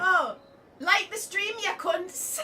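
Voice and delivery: loud, high shout to the viewers; calling out. Real, not acted. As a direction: holler it out to the stream audience.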